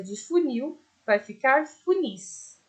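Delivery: funis said slowly, stress on the final nis; slow model plural. Shown as a demonstration. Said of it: "Ou seja".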